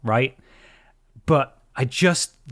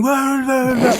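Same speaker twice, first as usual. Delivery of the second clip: high mocking whoa, much higher; mocking jeer; 13 semitones higher, 5 dB louder, slower than usual. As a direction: jeer like a cocky teenager. Kids jeering after rude gesture.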